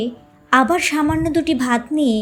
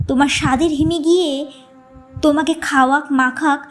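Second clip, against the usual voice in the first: mild anger. Acted. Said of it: "মা রাগ করে বলে উঠলেন".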